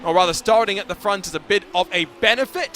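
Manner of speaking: rising finish-line call; live race play-by-play. Acted. Commentator calling Cimarelli to the line, rising play-by-play. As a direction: build to the finish like an announcer.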